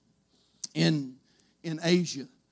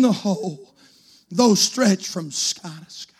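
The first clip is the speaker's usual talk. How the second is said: slow, solemn hymn recitation; slow recited hymn; slower than usual. Acted. Preacher reciting a hymn to the church, slow and solemn. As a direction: savour each line slowly.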